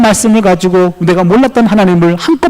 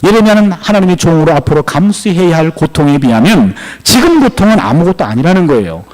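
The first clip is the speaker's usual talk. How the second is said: normal talking voice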